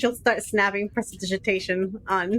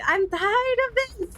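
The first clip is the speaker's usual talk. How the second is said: higher, exasperated outburst; fed up; 10 semitones higher than usual. Acted. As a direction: snap it out as if completely sick of it. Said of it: "she's like".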